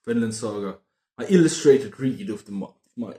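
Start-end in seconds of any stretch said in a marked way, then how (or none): 3.0-3.1 mock Irish Sean Connery accent, lightly done; playful fake Irish Sean Connery brogue. Reviewer naming his manga of the month in an Irish Sean Connery accent. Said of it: "What, what accent is that?".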